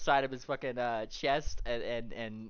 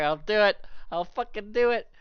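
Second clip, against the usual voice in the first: grumbling volunteer; 10 semitones higher, 10 dB louder than usual. Acted. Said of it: "She's just in the back".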